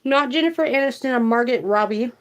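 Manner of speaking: talking while chewing; words around a bite of food; mouth full. Real, not acted. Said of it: "to chew with my mouth full".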